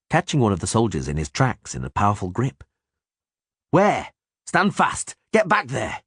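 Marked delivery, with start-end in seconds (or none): 3.7-6.0 high barked commands; shouted orders. Acted. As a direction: bark them back to the line.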